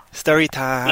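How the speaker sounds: hushed whisper, no voice. Acted. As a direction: breathe it like a secret. Teasing the coming story segment.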